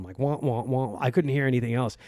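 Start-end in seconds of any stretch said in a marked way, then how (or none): 0.2-1.0 muffled trombone-like wah wah; a quick mock cartoon grown-up drone; Charlie Brown's mom noise. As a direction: lightly mimic the muffled adult voice from the cartoon. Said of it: "like Charlie Brown's mom".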